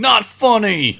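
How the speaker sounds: high, loud indignant yelp; John Mulaney impression. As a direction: shriek it, offended. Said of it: "John Mulaney going".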